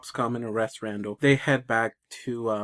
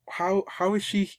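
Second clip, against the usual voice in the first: stunned; 8 semitones higher than usual. Retold or imitated. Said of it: "he's stunned for a minute".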